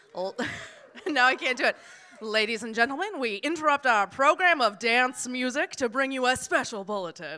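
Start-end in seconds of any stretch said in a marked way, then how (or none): 2.2-7.4 put-on old-time 1930s radio announcer voice. Performing a special bulletin during a talk: 1930s radio announcer voice. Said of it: "try and do my 1930s radio voice".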